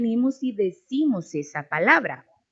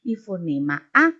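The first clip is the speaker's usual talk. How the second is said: deletreo lento. Shown as a demonstration. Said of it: "la división que hago de cada una de las letras".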